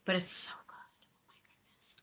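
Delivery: breathless whispered delight; gushing whisper. Real, not acted. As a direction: hush it like a guilty pleasure. Gushing about a favorite show.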